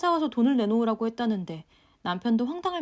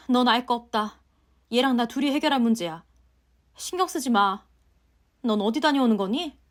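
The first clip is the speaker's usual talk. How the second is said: brushing it off; 4 dB louder than usual. Acted. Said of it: "아무 일 없다는 듯 말을 돌리더라고요".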